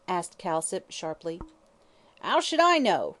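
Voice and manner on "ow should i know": much higher, louder sullen hag; sullen retort. Acted. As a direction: throw it back at him grudgingly. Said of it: "retorted Mother Guttersnipe sullenly".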